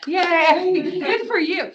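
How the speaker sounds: high, bright little "yay" of praise; congratulatory cheer. Real, not acted. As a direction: cheer on the one student who knows. Cheering the one decided student.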